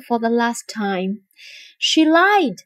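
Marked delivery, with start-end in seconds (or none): 1.8-2.6 mildly curt, higher pitch; short, curt accusation. A narrator's reading. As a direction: state it curtly. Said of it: "said Othello curtly".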